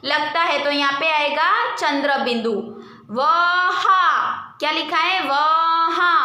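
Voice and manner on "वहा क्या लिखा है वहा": वहा said out with a held nasal ending; demo word. Shown as a demonstration. Teacher to pupils, showing the nasal vowel in वहा. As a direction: model वहा so the आ rings through. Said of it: "हा में पीछे pronounce आ रहा है".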